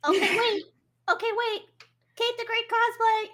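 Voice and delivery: excited outburst. Real, not acted. Player suddenly inspired to copy the costume, excited and high. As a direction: blurt it out, thrilled by the idea.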